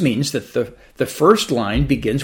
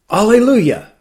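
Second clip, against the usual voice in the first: higher, louder joyful shout of Alleluia; 7 semitones higher, 6 dB louder than usual. Acted. Relieved man shouting in thanks after the donkey stops, loud joyful shout. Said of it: "the man shouted".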